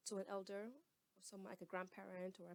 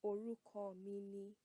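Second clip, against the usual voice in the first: "Orúkọ mi ni" said slowly and clearly; slow answer, say each word; slow model answer; 3 dB louder, slower than usual. Shown as a demonstration. Teacher models giving your name, slowly. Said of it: "you would say".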